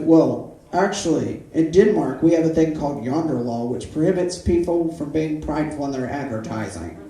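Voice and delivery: mock a Danish vendor, barely; half-hearted Danish accent; bad Danish accent. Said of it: "that's not a Danish accent".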